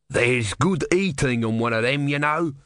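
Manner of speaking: wheedling street vendor voice; street hawker. Acted. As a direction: sell it slyly. Dublar speaks.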